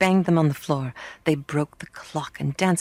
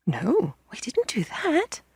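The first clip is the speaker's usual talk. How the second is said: higher, slow and breathless; gasping children; 6 semitones higher, slower than usual. A narrator's reading. Children caught out by the girl, gasping. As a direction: gasp it out as children. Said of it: "the children gasped".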